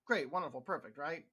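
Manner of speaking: mock approval, said dryly; sarcastic praise, meaning the opposite. Real, not acted. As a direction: pretend it's all just great, with obvious sarcasm. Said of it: "I'm being sarcastic".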